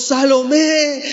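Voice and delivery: mock calling out, name stretched; retold crowd shouting. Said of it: "comenzaron a gritar todos". (grito imitado, alargado y moderado)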